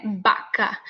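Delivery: Baca with a strong burst b; explosive b. Shown as a demonstration. Teacher demonstrating the plosive b. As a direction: block the air, then let the b of Baca out hard. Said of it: "depois sai mais forte".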